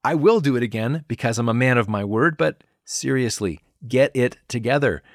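mock scolding from a fed-up parent figure; lightly acted, impatient telling-off; exasperated scolding. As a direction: tell them off, patience running thin. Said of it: "Jesus giving us a good scolding".

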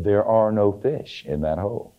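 slow, deliberate pronouncement; lightly voiced announcement from nowhere; mysterious voice from above. Unseen voice warning the ice fisherman at his second hole, slow pronouncement. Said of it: "a voice came and said".

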